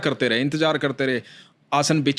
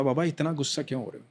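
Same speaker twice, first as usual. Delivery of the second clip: soothing; 2 semitones lower, 4 dB quieter than usual. Retold or imitated. Boy soothing the angry devotee.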